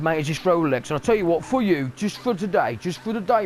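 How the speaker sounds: cheeky London street seller pitching a fake Rolex; dodgy street hawker. Hawker on the street selling fake watch, cheeky hustle. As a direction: lean in and hustle, all mates and winks. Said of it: "They're like the people that stand on the street like".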